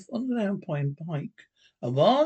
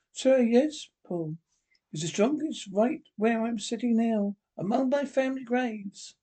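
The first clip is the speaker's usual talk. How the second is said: higher, lightly voiced young woman; young wife Sarah; 3 semitones higher than usual. Wife answering her husband in the dark, lightly voiced woman. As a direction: lift the voice for the frightened wife.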